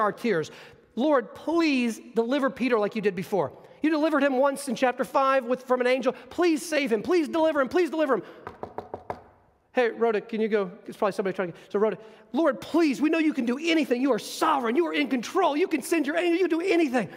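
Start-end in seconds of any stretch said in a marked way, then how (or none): 0.9-8.2 earnest prayer. Acted. Voicing the praying church. 12.3-17.1 earnest prayer. Acted. Voicing the praying church.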